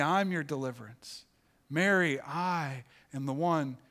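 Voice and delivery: lightly voiced Jesus calling her to freedom; tender calling. Jesus tenderly calling Mary to come to him. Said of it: "It was".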